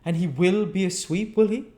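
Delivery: put-on high, loud doddering old gentleman; old magistrate. A narrator's reading. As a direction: ask it mildly, half asleep.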